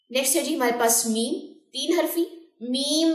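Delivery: usual speaking voice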